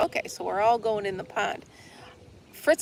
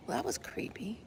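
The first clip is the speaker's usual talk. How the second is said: ordinary talk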